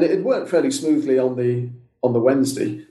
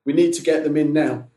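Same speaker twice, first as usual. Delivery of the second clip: retold steward's command, pitched up; mildly raised, take-charge voice; authoritative call; 3 semitones higher than usual. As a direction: imitate someone taking charge, without really shouting. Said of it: "quite authoritatively shouted".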